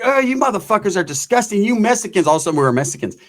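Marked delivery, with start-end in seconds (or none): 0.0-2.3 higher-pitched imitation of a disgusted woman. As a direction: recoil in mock disgust.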